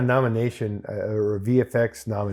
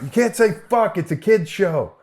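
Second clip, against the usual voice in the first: director voice; 8 semitones higher than usual. Retold or imitated. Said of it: "he's like".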